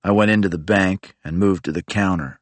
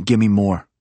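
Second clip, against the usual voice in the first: greedy repeating; 3 semitones higher, slower than usual. Retold or imitated. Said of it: "He kept saying".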